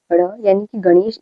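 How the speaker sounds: ड़ flapped, then गणेश with the same curled tongue; retroflex flap. Shown as a demonstration. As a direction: model ण in गणेश as ड़. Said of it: "इसको न नहीं पढ़ते".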